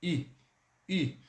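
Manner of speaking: a clear, spread "I" like Portuguese i; demo French i sound. Shown as a demonstration. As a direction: say "I" twice, spread lips. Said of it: "Então fica assim, ó". ("I" bem aberto, som de i)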